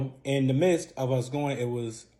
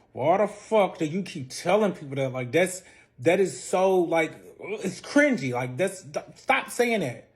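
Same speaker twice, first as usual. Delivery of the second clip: annoyed snap; 4 semitones higher, 4 dB louder than usual. Retold or imitated. Embarrassed quarrel with fiance.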